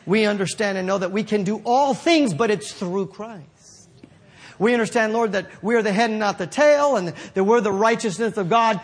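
prayer. Acted. Prays for the listeners.

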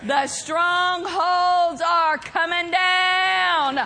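slow, drawn-out declaration; victorious proclamation. Real, not acted. Preacher declaring strongholds are coming down, slow victorious proclamation. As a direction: stretch each word into a proclamation.

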